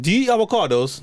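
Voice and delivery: put-on a clumsy British accent that drifts toward Mexican; bad British accent. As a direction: try Piers Morgan's British accent and miss. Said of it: "that's very bad".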